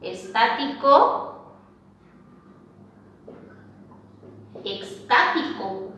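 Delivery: "estático" then "extático", slow and deliberate; slow careful contrast. Shown as a demonstration. Teacher to class, sounding out a paronym pair slowly. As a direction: let each word sit alone so the class hears "s" against "x".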